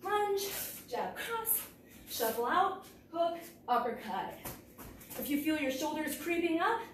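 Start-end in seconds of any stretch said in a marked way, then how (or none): 0.0-4.3 calling strikes while punching; punching through the combo; hitting a punching bag. Real, not acted. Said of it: "And I'm gonna switch".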